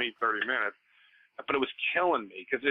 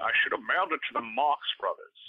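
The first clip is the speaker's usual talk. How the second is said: impression voice. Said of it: "obsessed with doing that voice".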